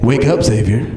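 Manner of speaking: low, measured cat voice; lightly voiced talking cat. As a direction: speak low as a cat in a dream. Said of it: "the cat looks over to me and is like".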